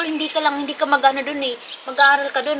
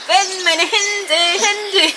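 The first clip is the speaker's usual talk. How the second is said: imitating him; 6 semitones higher, much slower than usual. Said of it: "Sabi niya".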